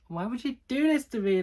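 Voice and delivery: high, loud mock-wounded complaint; hammed-up indignant wail; annoyed protest. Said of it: "that one annoyed me".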